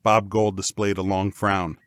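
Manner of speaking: plain reading voice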